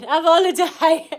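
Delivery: hammed-up cheery holiday cry; hammed-up urging. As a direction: overplay the invitation. Repeats it, bigger.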